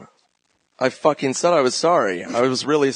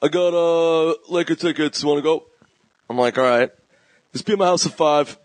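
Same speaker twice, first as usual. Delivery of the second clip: a lightly voiced gruff Jay, higher; impression of Jay; 4 semitones higher than usual. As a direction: play a gruff buddy offering Laker tickets. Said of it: "Why do I sound like fucking Duvall".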